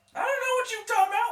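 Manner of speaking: fake high squeaky voice. Answering a plea for help with a squeaky Chris Tucker impression. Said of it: "Why'd you get all squeaky".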